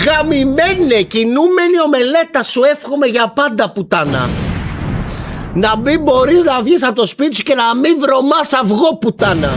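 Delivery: high, insistent curse dropping at the end; angry cursing. Real, not acted. Streamer cursing the man who spoke of coffins, angry. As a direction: hurl the insults, pitched high.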